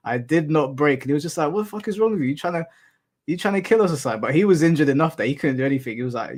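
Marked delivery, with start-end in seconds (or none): 1.5-4.2 imitating his angry friend, voice much higher; hammed-up outraged yell, pitched way up; mock furious friend. Friend angry after bike crash.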